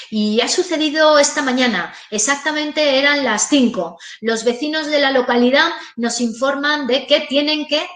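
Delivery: a reporter improvising on the spot, jerky rising tune; choppy reporter delivery. Shown as a demonstration. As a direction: stumble through it like a live reporter improvising. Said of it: "¿veis? Es como un, de abajo hacia arriba".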